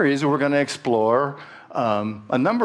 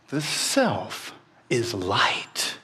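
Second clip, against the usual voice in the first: slow calm sage; 3 dB quieter, much slower than usual. Acted. Sage's slow answer.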